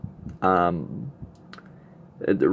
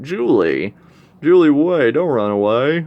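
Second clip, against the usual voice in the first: loud, higher call after someone running off; 6 semitones higher, 7 dB louder than usual. Retold or imitated. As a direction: shout her name across the room. Missionary calls after fleeing Julie.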